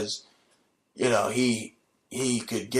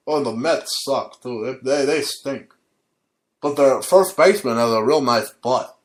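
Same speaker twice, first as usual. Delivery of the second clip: a lightly voiced radio sports host; a hint of an old radio host; Don Imus impression. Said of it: "how I imitate Don Imus".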